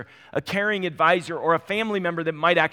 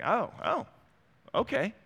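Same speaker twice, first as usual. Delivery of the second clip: higher, caught-off-guard oh okay; mock surprise; 8 semitones higher than usual. Husband hears wife wants Mexican, mock surprised higher voice. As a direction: play being taken aback, lightly. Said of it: "I'm like".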